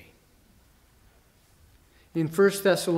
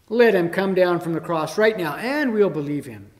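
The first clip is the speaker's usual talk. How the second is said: scoffing dare; 5 dB louder than usual. Retold or imitated. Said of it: "they scoffed".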